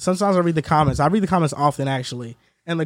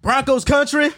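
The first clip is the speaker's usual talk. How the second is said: put-on country accent; 6 semitones higher, slower than usual. Shown as a demonstration. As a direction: throw a country twang on the catchphrase. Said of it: "Why did you throw the accent".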